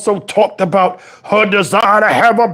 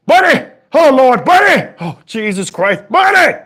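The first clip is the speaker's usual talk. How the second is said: calling out; 2 semitones higher than usual. Acted. Calling Bunny to come look. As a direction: yell for Bunny across the house.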